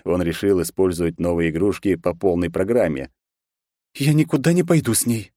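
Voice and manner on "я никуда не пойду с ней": dry. Acted. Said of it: "сухо ответила княжна".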